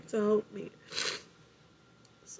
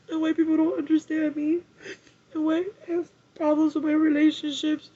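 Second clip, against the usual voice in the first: tearful; 4 semitones higher than usual. Real, not acted. Crying about being misunderstood.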